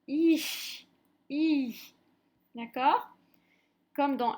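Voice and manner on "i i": "I" held long with air blown through it; blown, prolonged I. Shown as a demonstration. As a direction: draw out "I" and let it end in a hiss of breath. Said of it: "je souffle de l'air en même temps". (« I » prolongé en soufflant)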